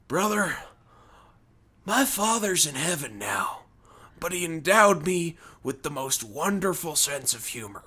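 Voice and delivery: lightly imitated solemn redneck with measured pauses; Hulk Hogan. Redneck returns upset about his father, Hogan-style voice. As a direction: confide it like an earnest wrestler. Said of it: "sounds like his voice is like Hulk Hogan".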